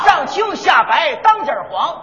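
slow, shouted street cry; hawker's call. Acted. Peddler shouts the fur's colours to the crowd. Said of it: "这就是北京故意".

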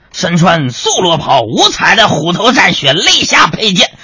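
hammed-up storytelling about a waiter; storyteller recital. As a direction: declaim like a traditional storyteller. Parodies storyteller describing hero.

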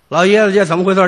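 fast, pressing demand; demanding son. Retold or imitated. Son confronting the taxi driver, fast and demanding. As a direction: grab him and demand answers, rapid-fire.

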